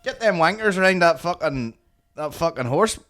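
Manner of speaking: hammed-up impression of a gruff market customer; imitated horse-gear customer. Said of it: "But he's just like".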